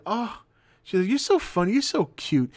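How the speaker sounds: high, cooing mock girl voice; lightly voiced tipsy passenger gushing.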